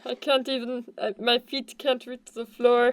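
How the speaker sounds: high, helpless plea for help; pleading stuck wizard. Acted. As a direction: beg like you're stuck on your back.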